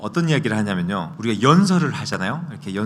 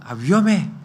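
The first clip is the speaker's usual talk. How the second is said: mock alarm shout; 8 semitones higher than usual. Preacher acting out a warning shout at a car, high. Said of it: "막 이러면서 소리를 지르지".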